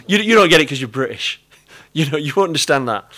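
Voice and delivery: put-on a light American preacher accent, teasing; mock American accent. Pastor imitates an American preacher teasing the British congregation, light American accent. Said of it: "an American preacher called Bill Wilson".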